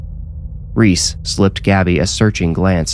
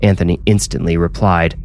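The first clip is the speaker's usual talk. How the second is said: usual speaking voice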